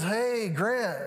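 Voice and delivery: lightly voiced easygoing doctor; unhurried doctor. Family doctor greeting a worried dad, unhurried. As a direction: imitate a man who is never in a hurry. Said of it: "he just kinda talks like this".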